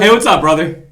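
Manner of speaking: loud, high Southern-style greeting; mock Southern accent. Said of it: "in a Southern accent".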